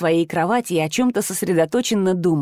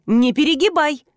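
sharp rebuke; 7 semitones higher than usual. A narrator's reading. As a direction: cut him off, commanding. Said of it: "рявкнула уже я".

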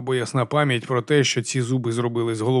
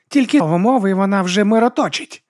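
loud, high brash boast; 8 semitones higher, 5 dB louder than usual. Acted. Vigga boasts to the monk, loud and high. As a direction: boast it at full volume.

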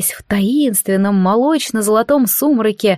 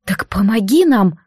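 ordinary delivery

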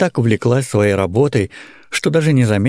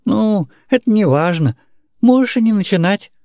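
careless; 11 semitones higher than usual. Acted. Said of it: "небрежно кинул Андрюша".

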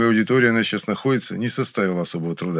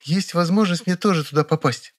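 raised female voice, eager and gossipy; a young woman sharing news; girlish, chatty Vera; Vera chatting; 10 semitones higher than usual. A narrator's reading. Vera's voice.

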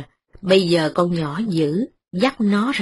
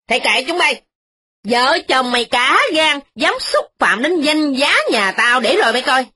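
put-on higher, threatening old mistress; snapping loudly; 5 semitones higher than usual. Old mistress threatens the tenant, higher and harsh. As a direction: bark threats, pitched up. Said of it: "Bà cai nạt lớn".

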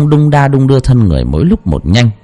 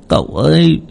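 tearful plea; 8 semitones higher than usual. Acted. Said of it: "mếu máo".

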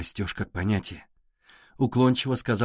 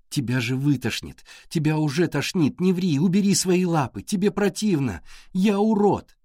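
hysterical crying out; 6 semitones higher than usual. Acted. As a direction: build into a high desperate yell. Alisa's hysterical outburst continues.

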